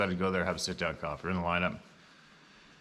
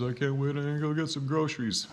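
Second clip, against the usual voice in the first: higher-pitched imitation of eagerness; eager anticipation; 6 semitones higher than usual. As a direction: quote a grateful man's eager plan. Quoting the grateful old man.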